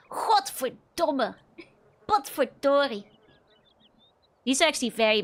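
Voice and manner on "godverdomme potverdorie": Godverdomme and Potverdorie said slowly, every syllable spelled out; slow, careful Dutch pronunciation of Godverdomme; saying Dutch swears. Shown as a demonstration. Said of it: "What are Dutch swears?".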